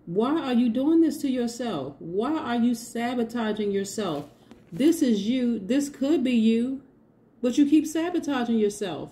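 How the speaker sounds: exasperated little bird voice; scolding bird voice. Retold or imitated. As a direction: play birds fussing at someone who keeps hurting themselves. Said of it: "Those birds are like".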